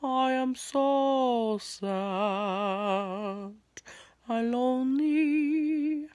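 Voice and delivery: slow mock-sad moan. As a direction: drag it out, hammed-up sorrow.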